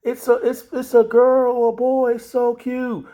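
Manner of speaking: put-on high doting baby-talk voice; cooing over a baby. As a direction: gush over a newborn, high. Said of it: "instead of people saying".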